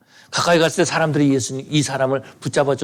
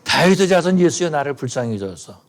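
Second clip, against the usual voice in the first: louder retold cry. Beggar shouting louder after Jesus, louder mock cry. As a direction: cry out harder as the crowd moves on. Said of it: "점점 더 크게 소리를 지르는 거죠".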